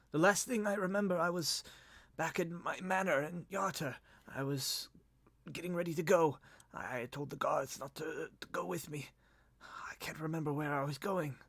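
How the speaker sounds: soft, high, halting recollection; cracked, broken voice. Acted. Dazed lord recalling his last day, weak voice. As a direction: feeble voice feeling for lost memories. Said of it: "cracked and broken".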